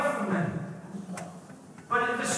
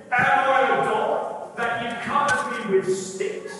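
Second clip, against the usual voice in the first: Goliath's taunt; 5 dB louder, slower than usual. Acted.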